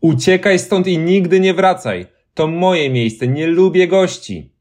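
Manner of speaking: high, slow ghostly warning; stern white lady. A narrator's reading. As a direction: send the boy away for good. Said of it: "powiedziała biała dama".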